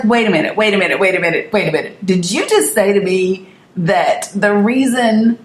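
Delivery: retold indignant disbelief; kind of pissed. Niece confronting her uncle over his remark, kind of pissed. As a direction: challenge him, stunned and offended. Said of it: "So I was kind of pissed".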